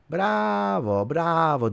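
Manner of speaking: mock applause pitched high; sarcastic bravo. Real, not acted. Fan mocking the players with high sarcastic bravo.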